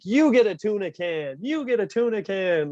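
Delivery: lightly voiced gift-giving host; a hint of an Oprah-style giveaway; mock game-show host. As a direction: hand out tuna cans like a prize show. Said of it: "I'll be there being like".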